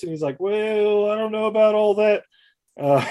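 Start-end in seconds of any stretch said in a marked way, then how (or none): 0.4-2.2 high, dismissive hedge; lightly voiced evasive Bailey. Bailey brushes off the woman, high dismissive voice. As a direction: shrug her off.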